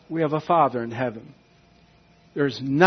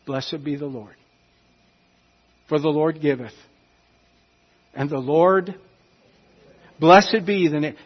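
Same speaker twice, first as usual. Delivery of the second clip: lovingly. Pretend. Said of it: "lovingly say".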